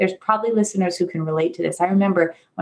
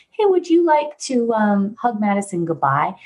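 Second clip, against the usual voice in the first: put-on talking to a child. Parent gently asking her child to hug Madison, coaxing. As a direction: invite gently, like asking a toddler.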